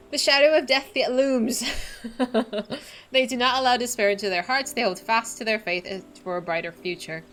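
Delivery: solemn quest-giver read; lightly voiced noble NPC; reading game dialogue. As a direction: voice the NPC's lines with gravity. Reads NPC quest dialogue aloud.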